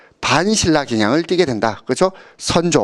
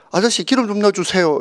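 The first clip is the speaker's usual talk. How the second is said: polite request; 6 semitones higher than usual. Retold or imitated. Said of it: "이렇게".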